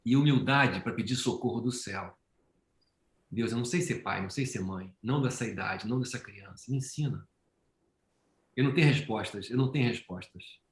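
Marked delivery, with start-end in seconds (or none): 3.3-7.2 soft, pleading prayer growing quieter; sincere whispered-down plea to God, getting softer; humble prayer. Pretend. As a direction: quietly beg God for guidance. Prayer asking God for help.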